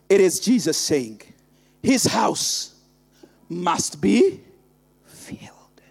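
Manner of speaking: hushed reverence. Acted. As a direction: draw them in to a whisper. Sudden drop to hushed quote.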